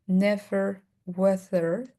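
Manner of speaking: "never weathered" slow, V stretched; drawn-out V in "never"; exaggerated V. Shown as a demonstration. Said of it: "exaggerate the V".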